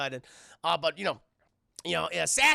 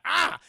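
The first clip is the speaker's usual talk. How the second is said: effort grunt; 11 semitones higher, 6 dB louder than usual. Acted. Acting out a shot put throw.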